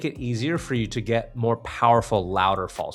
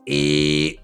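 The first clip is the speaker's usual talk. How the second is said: clean strong buzzer; 4 semitones higher, 5 dB louder than usual. Shown as a demonstration. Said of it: "get it clean, clear, and strong".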